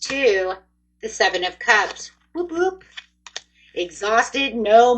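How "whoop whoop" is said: high, whooping cheer; gleeful little whoop. Real, not acted. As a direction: celebrate the card with a whoop. Cheering good card.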